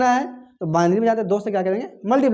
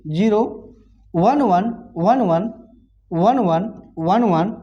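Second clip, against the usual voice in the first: slow digit count; much slower than usual. Shown as a demonstration. Teacher slowly reading binary digits.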